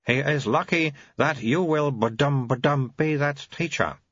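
put-on very high, babyish old abbot voice; an ancient mind in a baby's mouth; high piping infant abbot; baby-bodied old abbot. Abbot babbling.

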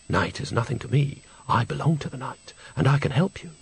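soft, pleasant offer of help. Acted. Mysterious voice from the mirror offers Agnes help, pleasantly soft. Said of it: "It was a pleasant voice".

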